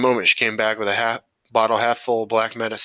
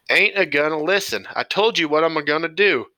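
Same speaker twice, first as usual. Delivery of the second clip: stubborn shout; 6 semitones higher than usual. A narrator's reading. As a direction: shut the argument down hard. Grandpa refuses, shouting back.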